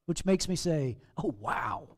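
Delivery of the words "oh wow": much lower, soft "Oh, wow"; a deflated, rueful groan; a low sigh at it all. Real, not acted. Preacher's own rueful reaction.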